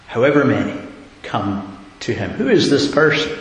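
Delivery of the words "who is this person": who is this person, thrown out higher and louder; louder, higher challenge. Real, not acted. Preacher pressing the congregation, louder and higher. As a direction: raise the question to the congregation.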